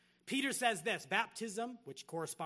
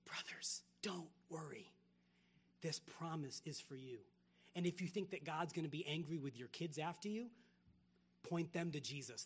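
softer, hushed comfort from Peter; tender reassurance; 2 semitones lower, 4 dB quieter than usual. Retold or imitated. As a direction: gently reassure the guilty crowd. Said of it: "He says, essentially".

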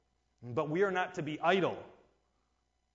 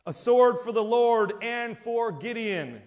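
battle cry; 5 semitones higher, 5 dB louder than usual. Acted. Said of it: "and then they shouted".

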